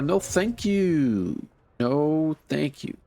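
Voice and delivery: high, slow no thank you; exaggerated polite decline; drawn-out polite refusal. Real, not acted. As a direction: stretch it out, declining sweetly. Politely turning down creepy offer.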